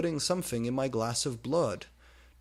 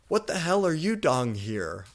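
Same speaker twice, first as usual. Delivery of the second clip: startled question; 6 semitones higher, 6 dB louder than usual. Acted. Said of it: "I asked".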